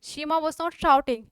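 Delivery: धीमे-धीमे दोहराना; हर शब्द अलग, धीरे; slow dictation. Shown as a demonstration. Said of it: "teacher repeats slowly". (कॉपी में लिखवाते हुए धीमा)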